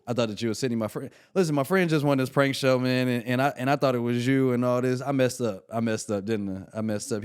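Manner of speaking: loud, rushed, panicky apologizing; flustered apology. Retold or imitated. Young comic realizes he hung up on Sinbad, loud panicked apology. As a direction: babble sorry at full volume, caught out.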